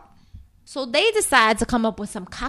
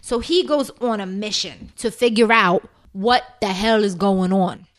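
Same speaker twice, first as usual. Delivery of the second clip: ordinary talk, nothing marked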